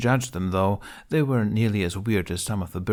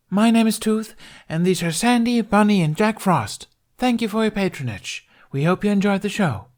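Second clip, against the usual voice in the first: much higher, louder, eager little voice; bubbly Tooth; 11 semitones higher, 6 dB louder than usual. Acted. Tooth greeting the audience after the show, bubbly and eager. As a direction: bounce every word with delight.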